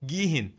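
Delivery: گیهین with the h pronounced; گیهین, h clearly sounded mid-word. Shown as a demonstration. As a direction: say an audible h between the vowels of گیهین.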